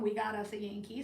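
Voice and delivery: imitated unwelcoming local, kept low-key; unwelcome version. Weighing whether locals resent her, unwelcoming take. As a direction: say it as a cool, unfriendly remark. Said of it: "an unwelcome".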